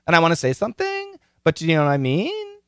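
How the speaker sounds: every phrase ending on a rise, quick; upspeak. Shown as a demonstration. Teacher demonstrates upspeak to podcasters with rising endings. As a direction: lift the ends like questions. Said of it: "she lacks upspeak".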